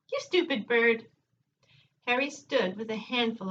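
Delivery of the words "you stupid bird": a hint of a talking bird; parrot voice. Parrot speaks in story.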